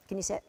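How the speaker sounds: "can you sit?" lifted like a soft question; sit asked as a question. Real, not acted. Trainer to puppy, a cue said as a question. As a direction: ask "can you sit?" as if it were a request. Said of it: "It sounded like a question".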